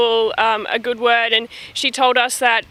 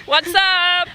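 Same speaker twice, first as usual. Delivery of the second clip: put-on American accent; 6 semitones higher than usual. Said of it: "What is your American accent?".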